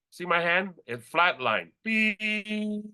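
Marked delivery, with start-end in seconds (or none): 1.8-2.2 heart monitor beep. Shown as a demonstration. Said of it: "I'm doing a visual".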